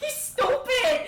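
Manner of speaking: high, loud, slow words through laughter; laughing shout. Real, not acted. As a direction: laugh out the insult. Player laughing at character.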